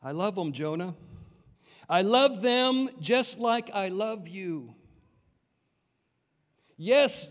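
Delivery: a lightly voiced God, gentle then firmer; God's tender plea. God answers Jonah.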